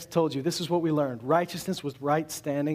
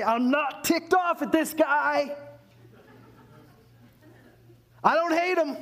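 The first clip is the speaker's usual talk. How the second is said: mock heavenly voice; 9 semitones higher than usual. Preacher mocking what heaven might have said, hammed-up high voice. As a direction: ham up a grudging heavenly voice. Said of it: "did it say".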